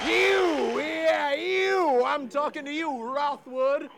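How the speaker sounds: loud taunting callout; calling out. Acted. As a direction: point him out to the crowd. Calling out the challenger.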